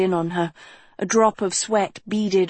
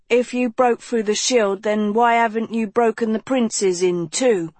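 raised, pushy shout; 3 semitones higher than usual. Acted. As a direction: shout the challenge. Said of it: "Nicholas shouted".

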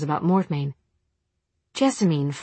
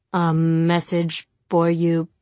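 slow, dull automaton voice; mechanical voice; 3 dB louder, slower than usual. Acted. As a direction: deliver it like a machine. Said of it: "a dull mechanical voice".

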